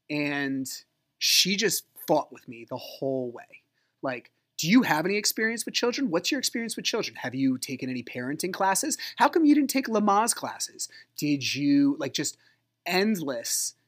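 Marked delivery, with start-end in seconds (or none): 4.6-12.0 imitating a rapid-fire interrogation, pitched up; obnoxious nagging. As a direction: fire off nosy questions like a needling mother-in-law. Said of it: "just obnoxiousness".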